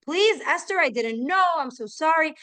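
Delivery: lightly acted desperate plea; begging. Villain grovels before the queen, mild begging. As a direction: beg for your life, understated. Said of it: "like, begging for his life".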